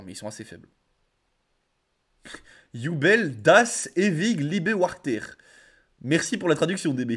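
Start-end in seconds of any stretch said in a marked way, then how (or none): 2.7-5.2 slow, untrained attempt at German; clumsy German accent. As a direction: read the German title slowly in an amateur accent. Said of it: "L'accent allemand, par contre, y a rien". (accent allemand approximatif)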